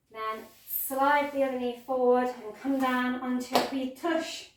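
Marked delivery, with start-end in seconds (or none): 3.7-4.5 put-on a quick playful slip into a Scottish accent on "wee tush"; Scottish-accented aside; sudden Scottish. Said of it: "Don't know why I went all Scottish there".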